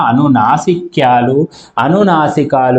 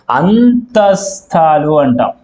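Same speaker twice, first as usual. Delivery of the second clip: slow term; slower than usual. Shown as a demonstration. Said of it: "అనే అక్షరాలను మనం ఏమంటాం".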